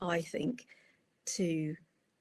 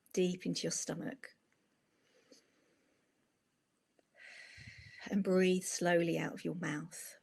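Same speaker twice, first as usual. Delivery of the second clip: unhurried breathing instructions with long pauses; easy meditation-teacher delivery, pausing for each breath; guided meditation. Acted.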